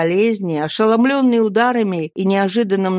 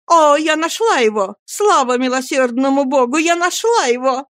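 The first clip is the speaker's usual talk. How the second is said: hysterical lament; 7 semitones higher than usual. Acted. Nancy fakes finding her runaway brother, high hysterical lament. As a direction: wail it out to fool the crowd. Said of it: "несвязных причитаний".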